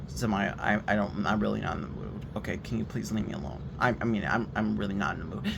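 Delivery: low, very soft plea to be left alone; very calm. Retold or imitated. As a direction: keep it hushed and low, weary of arguing. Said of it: "I'm being very calm about this".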